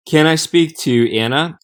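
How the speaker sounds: ANNA with the flat American first vowel, as in "can"; Anna as an American would say it; American pronunciation. Acted. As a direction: say Anna the American way, rhyming with banana. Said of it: "pronouncing her name the American way".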